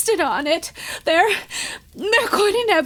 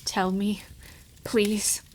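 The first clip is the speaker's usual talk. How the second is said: breathless plea; 10 semitones lower, 11 dB quieter than usual. Acted. Widow begs softly.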